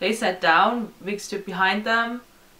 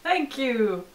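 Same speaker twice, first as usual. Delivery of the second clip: higher, sweetly touched quote; lightly acted, higher-pitched gratitude; imitated delighted thanks; 6 semitones higher, slower than usual. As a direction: imitate a band gushing thanks to fans. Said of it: "they were like".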